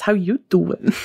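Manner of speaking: put-on Brooklyn New York accent, playful catchphrase; Joey Tribbiani. Host greets listeners with a Friends catchphrase, mock Brooklyn accent. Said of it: "said it with that kind of accent".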